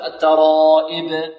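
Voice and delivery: الترائب ending in "eb" for "ib"; wrong open vowel after the madd in الترائب; faulty kasra. Shown as a demonstration. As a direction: demonstrate the mistake, slack e on the hamza of الترائب. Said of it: "خطأ".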